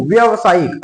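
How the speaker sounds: व्यवसायिक said with a short व्य; wrong pronunciation. Shown as a demonstration. Teacher testing the written spelling by saying it, wrong pronunciation. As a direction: say व्यवसायिक without lengthening the first vowel. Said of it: "इसको करके देखो".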